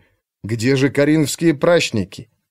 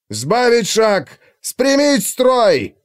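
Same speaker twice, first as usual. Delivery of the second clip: gruff barked parade orders; 9 semitones higher, much slower than usual. A narrator's reading. Commander shouts orders mid-march.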